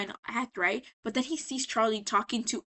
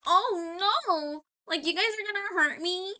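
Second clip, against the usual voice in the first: high, put-on damsel voice; hammy helpless victim; 8 semitones higher than usual. Angel acting his scene to the guys, mock helpless. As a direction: overact fear like a bad film actor.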